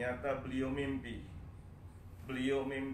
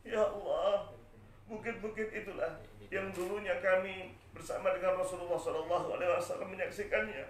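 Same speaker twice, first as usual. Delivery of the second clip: higher, mildly tearful lament; a touch of crying in a raised pitch; starting to weep; 6 semitones higher than usual. Acted. Bilal seeing Madinah's hills, beginning to weep. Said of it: "mulai menangis".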